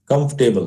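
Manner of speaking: कंफर्टेबल joined up as "kumf-tebal"; correct pronunciation. Shown as a demonstration. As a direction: say कंफर्टेबल whole, without the middle "fur". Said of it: "इसको पढ़ेंगे कम्फ". (कंफर्टेबल, जोड़कर "कम्फ-टेबल")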